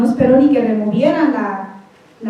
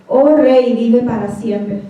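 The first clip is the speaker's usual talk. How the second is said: respectful reply; slower than usual. Retold or imitated. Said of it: "no le contestó Daniel con un corazón amargado".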